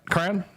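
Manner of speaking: "Crayon?" flattened to a Southern KRAN. Retold or imitated. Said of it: "Clay has a heavy southern accent".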